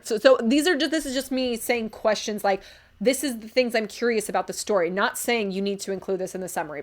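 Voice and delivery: ordinary talk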